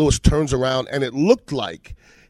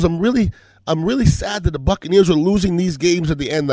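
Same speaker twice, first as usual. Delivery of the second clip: higher-pitched imitation of a young woman; young lady arguing; 5 semitones higher than usual. Young lady complaining over cocktails about lost games, lightly imitated. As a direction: lightly voice an upset female fan. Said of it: "I had this argument with a young lady".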